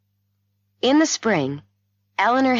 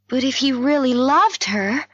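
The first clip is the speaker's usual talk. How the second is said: higher, louder-building protest question; incredulous; 8 semitones higher, 4 dB louder than usual. A narrator's reading. Heroine doubting the doctor's explanation, incredulous. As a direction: question it in disbelief, rising at the end.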